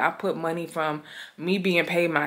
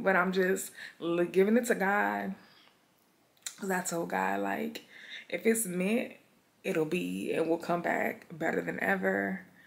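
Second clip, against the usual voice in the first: voice near tears, struggling not to cry; 2 semitones higher, 4 dB quieter than usual. Saying a temporary goodbye to viewers, the speaker is holding back tears. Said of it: "trying not to cry".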